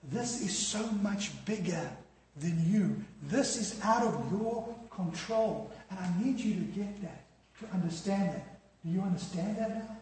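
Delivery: softly voiced tender explanation, with mild earnest emphasis; loving reassurance. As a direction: speak gently, as if to a failing friend. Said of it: "It was a look of love that said".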